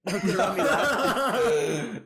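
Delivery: loud, high hammed-up Aussie shout; cartoon Australian lad call; mock Australian accent. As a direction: crack yourself up doing an Australian accent. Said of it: "And then Chris says".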